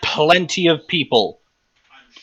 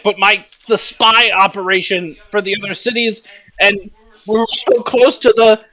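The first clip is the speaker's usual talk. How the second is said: blubbering; 5 semitones higher, faster than usual. Acted. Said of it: "Karth is, like, blubbering".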